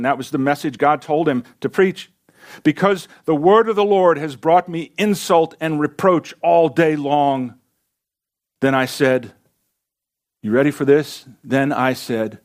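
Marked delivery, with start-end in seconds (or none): 2.6-7.5 emphatic lament, slowing at the end; a prophet's pained protest; anguished complaint. Acted. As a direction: lay the grievance before God, drawing out the last words. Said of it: "the change in tone from this faithful man of God".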